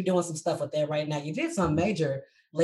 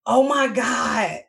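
slow, drawn-out exclaim, louder; retold amazement; 4 semitones higher, 3 dB louder, much slower than usual. Seeing his Facebook post for the first time, slow amazed exclaim. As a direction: stretch it out like you can't believe it.

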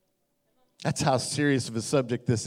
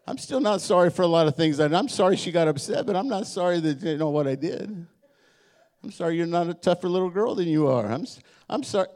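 mock non-apology; 4 semitones higher than usual. Mocking non-apology to wife.

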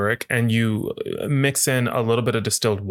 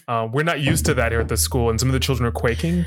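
concerned school staffer. Pretend. School staffer confronting a visitor about her veins, measured mock concern.

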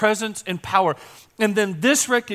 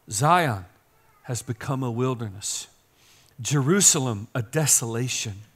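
scripture lament reading; 3 semitones lower, 3 dB quieter than usual. Acted. Reads scripture lament softly.

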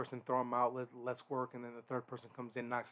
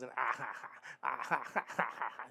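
mocking laugh imitation. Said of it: "stupid laughs".

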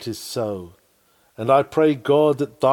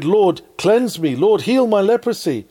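crying out; 7 semitones higher, 4 dB louder than usual. Acted. Preacher voicing the leper begging Jesus, a louder, higher pleading cry. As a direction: cry out to the Lord in earnest plea. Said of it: "He cried".

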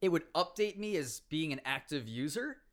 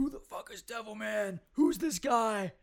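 mock baffled players; 6 semitones higher than usual. Quotes confused top players.

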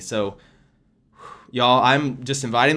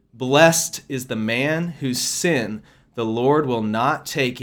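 scripture reading. Acted. Reads scripture aloud.

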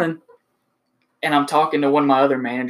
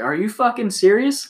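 slow, higher disbelieving outrage; got mad; 7 semitones higher than usual. Retold or imitated. Salesman catching the manager lying, slow angry disbelief. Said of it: "that's when I got mad".

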